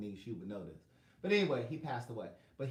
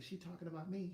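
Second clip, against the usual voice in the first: hushed, much softer; quiet whisper; 3 semitones higher, 9 dB quieter than usual. Retold or imitated. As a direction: murmur it under your breath. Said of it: "He, like, whispered it".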